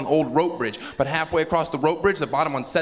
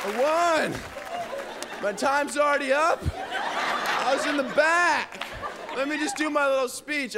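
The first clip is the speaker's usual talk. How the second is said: giddy winner; 11 semitones higher than usual. Pretend. Rushed giddy winner, laughing.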